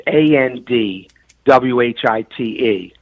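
"A N D W H I T E" spelled letter by letter; letters of "A N D W H I T E" named one by one; spelling out. Shown as a demonstration. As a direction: spell out each letter of "A N D W H I T E" clearly. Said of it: "it's Brown and it's".

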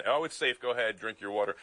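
lightly voiced politician waving off danger; mocking Governor DeWine. State legislator mimics the governor's flip-flop, mild mock. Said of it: "I listened to Governor DeWine".

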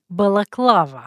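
בלקלבה with a light Russian accent. Shown as a demonstration. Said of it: "אפשר להגיד את זה גם במבטא רוסי". (מבטא רוסי קל)

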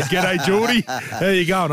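high-pitched mock hello; retold friendly greeting. Retelling a friendly greeting exchange.

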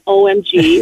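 high-pitched California-style O M G; playful Californian exclamation. Retold or imitated. Guest jokingly retells her reaction to host, California style. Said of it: "in good California style".

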